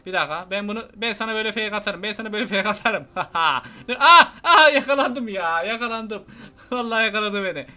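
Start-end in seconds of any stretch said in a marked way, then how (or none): 3.1-7.6 laughing as he gets caught. Real, not acted. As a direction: caught and cracking up.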